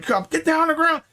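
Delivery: high mock yell at Cobb; guard yelling. Guard ordering Cobb to the ground, high mock yell. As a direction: shout him down like a lawman.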